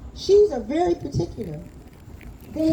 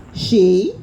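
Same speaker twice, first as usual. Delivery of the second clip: calling out; 3 semitones lower, 8 dB louder than usual. Acted. Baba calling his new daughter.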